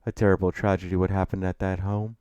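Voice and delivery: put-on proud, refined older gentleman; Gabriel Jayfield. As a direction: open loud and delighted, then settle into formality. Narrator voices Gabriel.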